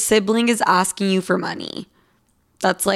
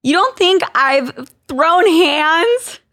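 put-on Valley Girl voice; 6 semitones higher, 3 dB louder than usual. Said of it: "My Valley Girl voice saying throw hands".

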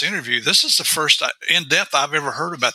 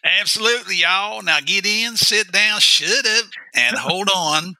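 higher, hammed-up country showman intro; hillbilly game host; 6 semitones higher, slower than usual. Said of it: "I can't do this with a straight face".

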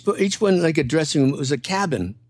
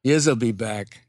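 lightly voiced New York tough guy, a bit lower; New York accent; 4 semitones lower than usual. Parking lot manager warning the couple, light New York accent. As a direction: drop it into a hint of a Brooklyn parking attendant.

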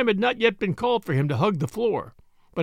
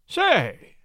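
mystified; 7 semitones higher than usual. A narrator's reading. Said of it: "said he, mystified".

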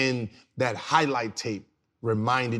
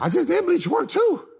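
much higher and louder mock complaint; arguing back to the trainer in a much higher, louder indignant voice; indignant protest; 5 dB louder than usual. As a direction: squeak out the protest like you've been wronged. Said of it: "I said".

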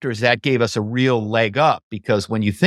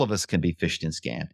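softer and lower, the point dropped quietly: "all of us can be phished and scammed"; quiet payoff; 7 semitones lower, 9 dB quieter than usual. Real, not acted. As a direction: let the conclusion fall softly, almost to yourself. Building a point about being scammed.

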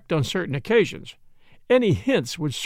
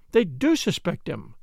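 ordinary delivery, nothing marked

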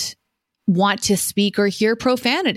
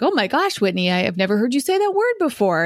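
mildly surprised reaction; 3 semitones higher, faster than usual. Retold or imitated. Friends reacting to her rare swearing, mildly surprised. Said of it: "people are generally surprised".

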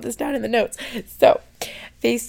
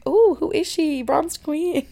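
higher, louder, hammed-up self-admiration; playful mock delight; 6 semitones higher, 4 dB louder, slower than usual. Catching herself in the mirror, mock impressed. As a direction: strike a pose and gush at yourself. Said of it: "and I'm like".

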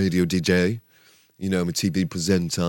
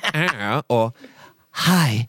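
mocking timid greeting; much slower than usual. Coach mimicking the actor's weak entrance, mocking. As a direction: mimic a feeble opening line, pitched up. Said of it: "Not Studley Goodfuck vibes".

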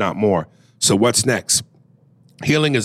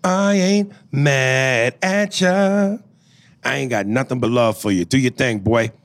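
quoting a rapper; 3 semitones higher than usual. Retold or imitated. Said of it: "in the words of a rapper".

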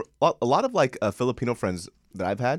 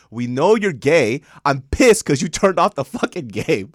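slow, louder exasperated complaint; mock exasperated brother; 5 semitones higher, 8 dB louder, slower than usual. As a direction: drag it out, fed up. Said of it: "his brother's argument was like".

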